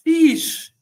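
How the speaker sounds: high, loud exclamation; exasperated sheesh. Real, not acted. Exasperated reaction to Saliba's foul.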